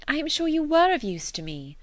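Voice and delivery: high, bright-spirited exclamation; cried out with feeling; eager cry. Acted. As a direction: Emma cries out her thanks. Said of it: "cried Emma".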